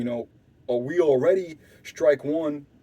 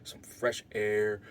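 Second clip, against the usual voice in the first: hushed suggestion; 6 semitones lower, 9 dB quieter than usual. Retold or imitated. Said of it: "So I'm like".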